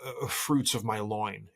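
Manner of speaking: incredulous dad. Retold or imitated. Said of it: "I'm just like".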